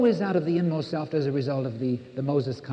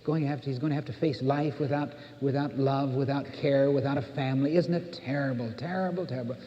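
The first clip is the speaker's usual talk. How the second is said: pitying parent; 4 dB quieter than usual. Retold or imitated. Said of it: "as we say".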